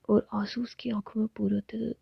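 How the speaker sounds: usual speaking voice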